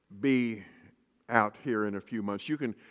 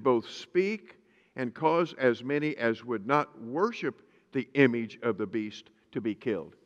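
scripture reading. Acted. Pastor reads Revelation aloud.

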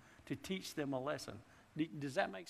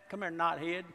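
daddy calling; 4 semitones higher, 6 dB louder than usual. Retold or imitated. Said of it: "your daddy will call you a knothead".

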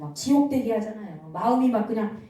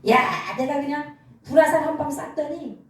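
lightly acted devil crowing over a victim; gloating devil; 3 semitones higher than usual. Preacher voices the devil pleased with his fiery arrow, mildly gloating. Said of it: "마귀가 좋아가지고 막 떼춤을 추는 거예요".

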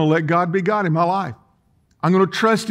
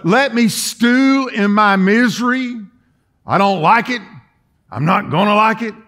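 mock stubborn sulk; 4 semitones higher than usual. Acting out someone wanting to sulk.

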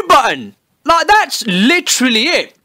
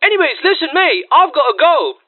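fake interest; 4 semitones higher than usual. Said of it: "doing the following".

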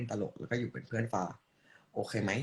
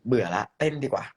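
louder, falling at the end: "เบื่อละ เต้นดีกว่า"; loud announcement; 8 dB louder than usual. Acted. Streamer bored of talking, loudly announcing a dance. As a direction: call out the switch to dancing.

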